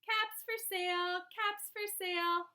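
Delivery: sing-out street seller's call. A narrator's reading. Peddler walking back to town, calling his wares.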